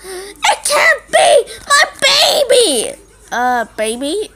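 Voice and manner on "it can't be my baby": slow, mock crying cry; laughing fake despair, drawn out; hammed-up lament. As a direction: overplay heartbreak.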